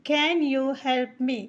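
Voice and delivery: very slow and deliberate; drawn-out teacher demo; slow model sentence. Shown as a demonstration. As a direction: spell the sentence out slowly for learners. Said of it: "तो हम कहेंगे".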